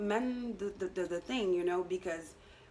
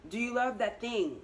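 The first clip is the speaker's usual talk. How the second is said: "love" raised with emphasis; stress on LOVE; 2 semitones higher than usual. Shown as a demonstration. Reader challenging the viewer's passion, leaning on "love". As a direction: say "love" with a big L. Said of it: "with a big L".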